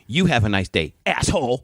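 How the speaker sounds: imitated snide comeback, stressed YOU; retold bitchy retort. Rude customer to the store clerk, imitated bitchy retort. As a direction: throw the farewell back with mock venom. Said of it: "I can hear her bitching at the guy".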